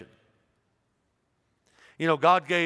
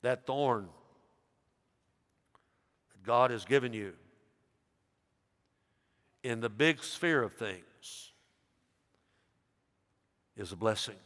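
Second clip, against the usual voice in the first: soft, tender; 6 semitones lower, 7 dB quieter than usual. Real, not acted. Quiet tender application.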